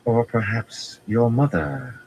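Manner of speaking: slow dangerous jab. A narrator's reading. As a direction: twist the knife, slowly. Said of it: "she asked in a dangerous tone".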